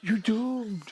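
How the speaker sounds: doom-laden prophet warning; slow ominous raspy drawl. Retold or imitated. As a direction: intone it like a crazed old prophet. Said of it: "This is pure Friday the thirteenth".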